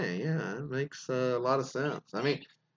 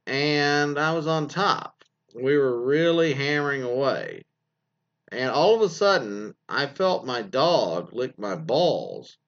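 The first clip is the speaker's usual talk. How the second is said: slow, drawn-out reading of a confession; dramatic story read; 2 semitones higher, slower than usual. Acted. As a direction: read it out deliberately, stretching phrase ends. Reads a listener's submission aloud.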